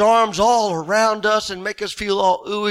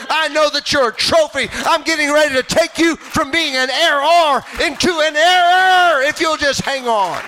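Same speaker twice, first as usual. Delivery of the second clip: God rebuking Job; 6 semitones higher than usual. Pretend. God confronting Job in his ashes, a stern rebuke. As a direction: press him hard, a challenging voice from on high. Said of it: "He says".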